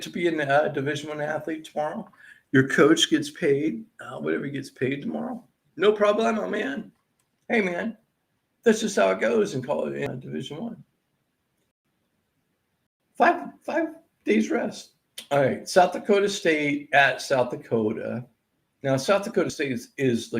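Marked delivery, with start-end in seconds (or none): 5.8-14.9 mock dude voice. Mock laid-back athlete.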